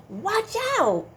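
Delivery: gasp, then a high, loud watch out; mock alarm. Teacher playfully warning children about grasshopper. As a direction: pretend startle for the kids.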